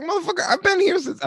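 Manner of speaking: high, hammed-up outburst; mock angry retort. At the woman who cut the line, mock angry. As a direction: fake a furious comeback. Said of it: "I was like".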